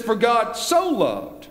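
"For God so loved" slowed, with "so" leaned on; slow, emphatic "For God so loved"; stress on so. Shown as a demonstration. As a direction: draw out "For God so loved", weighting "so". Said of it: "obvious emphasis on the word love".

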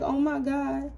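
a reader mocking the gold digger's jealous whine; jealous woman. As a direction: mimic her petty complaint. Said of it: "She like".

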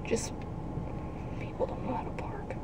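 muttered under breath; whispered aside. Real, not acted. Driver annoyed by bad parking, whispered aside. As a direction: grumble to yourself at bad drivers.

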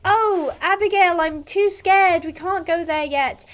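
high, slow mock-scared whine; scared talking horse. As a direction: voice a timid horse refusing slowly. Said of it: "It would say, like".

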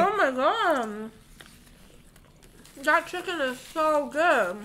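slow, savoring with mouth full. Real, not acted. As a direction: talk through the bite, savoring it. Just bit into chicken.

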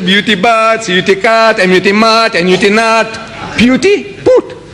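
rising sing-song spelling, "put" pops high; mock pronunciation lesson. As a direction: mimic the drill, ending with a high "put". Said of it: "that's funny".

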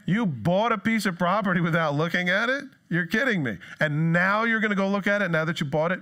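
insistent disbelief with questioning rises; playfully astonished cross-examination; mock incredulous. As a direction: challenge a ridiculous excuse. Mock questioning of a flimsy excuse.

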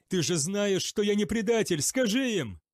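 high, loud urgent begging; desperate plea. A narrator's reading. Zachariel begs Israfael to vouch for him, desperate. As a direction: plead at full voice. Prisoner pleads loudly.

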